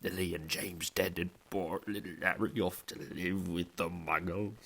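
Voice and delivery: muffled, halting tearful words; sobbing Hagrid. A narrator's reading. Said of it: "burying his face in it".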